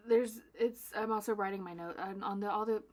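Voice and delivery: loud, excited stumbling start; over-amped. Real, not acted. Host rushing to explain her order notes, over-amped. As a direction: burst in a notch too loud. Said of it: "okay, take it back a notch".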